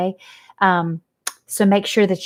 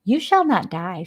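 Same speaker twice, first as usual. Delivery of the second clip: brisk. Acted. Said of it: "said Charlotte briskly".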